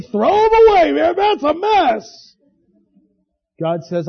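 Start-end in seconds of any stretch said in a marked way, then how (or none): 0.0-2.4 mock the quitter who tosses it aside; dismissive scoffer. Preacher mocking someone who gives up, high and scornful.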